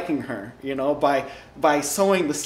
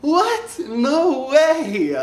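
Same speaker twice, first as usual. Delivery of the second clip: high, loud squeak of disbelief; shocked disbelief; 11 semitones higher, 5 dB louder, much slower than usual. Retold or imitated. Boy hearing he's being talked about, high-pitched shocked yelp. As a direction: yelp it like you can't believe your luck. Retelling his shock at the gossip.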